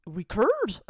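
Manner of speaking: "Records?" pushed hard in American English; mock American accent on "Records?"; forced American accent. Shown as a demonstration. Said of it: "quand j'essaie de forcer mon accent".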